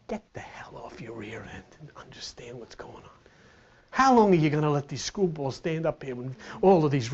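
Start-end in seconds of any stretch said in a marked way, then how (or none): 0.1-3.1 low, hushed order; the inner voice telling the lazy to get moving; whispered rebuke. Acted. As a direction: whisper it hard and blunt. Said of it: "He's saying".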